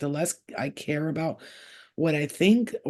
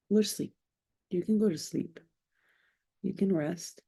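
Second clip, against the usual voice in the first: tender soothing; 4 semitones higher than usual. Real, not acted. Owner telling her dog to rest, tender lullaby-like talk. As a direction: coax a pet to sleep.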